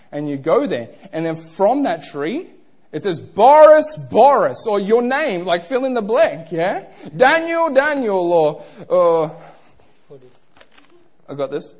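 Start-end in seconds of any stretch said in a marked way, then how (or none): 3.2-4.7 calling out. Acted. Tree calling a hiker by name, calling out. 7.2-8.3 high, raised summons; calling out. Acted. Tree calling a listener by name, calling out.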